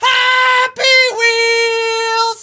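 loud, full-throated shouting. Opening the video, then apologizing to the neighbors: shouting loudly. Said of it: "Sorry, neighbors".

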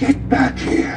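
deep gravelly voice. Calling after someone who is running away, in a deep gravelly voice. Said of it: "His voice got deep just then".

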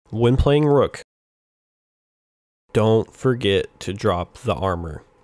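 very slow, deliberate, word by word. Giving advice on playing Rook, saying this very slowly. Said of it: "I'm going to say very slowly".

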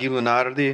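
put-on French, Italian or Portuguese Romance accent. Introducing the evening's speaker by name with a French, Italian or Portuguese accent. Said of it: "a French and an Italian or Portuguese accent".

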